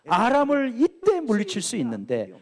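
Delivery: deplore the missed chance, mildly acted; retold lament. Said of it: "요아스를 탄식하고 있는 겁니다". (안타깝게 탄식하는 말투 흉내)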